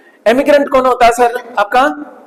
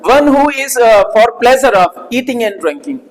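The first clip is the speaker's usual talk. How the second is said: slow dictation; much slower than usual. Shown as a demonstration. Teacher dictates the English meaning, slowly. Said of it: "teacher dictates definition".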